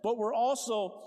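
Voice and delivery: loud preaching of scripture; full-force preaching. Acted. Pastor preaching Acts to the congregation at full force. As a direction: proclaim it to the whole church.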